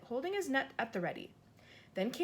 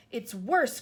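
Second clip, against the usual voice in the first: louder, emphatic; loud insistence; 7 dB louder than usual. Acted. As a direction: outdo her fear. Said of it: "cried the B F G".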